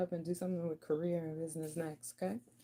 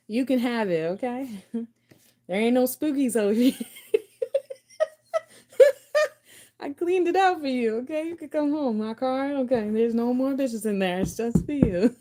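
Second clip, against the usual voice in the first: much higher and louder through laughter; laughing mock invite; 6 semitones higher, 10 dB louder than usual. The suitor telling their love the house is clean, high and laughing. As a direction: giggle it out up high while playing the eager suitor.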